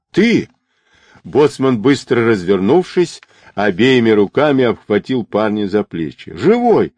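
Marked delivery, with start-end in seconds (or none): 0.1-0.5 sudden high-pitched amazement; startled exclamation. A narrator's reading. Boatswain turns and sees the lad alive, startled high cry. 6.3-6.9 high, elated cry of relief; overjoyed exclamation. A narrator's reading. Boatswain grabs the lad thought drowned, overjoyed high exclamation.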